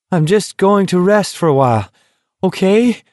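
high, dazed smiling plea; trusting smile. A narrator's reading. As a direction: smile through the shock, trusting. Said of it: "with a trusting, shell-shocked smile".

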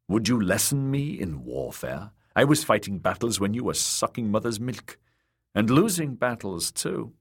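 lightly voiced stern uncle, scornful; a hint of a proud sea captain; gruff old warrior. Uncle's voice in narration.

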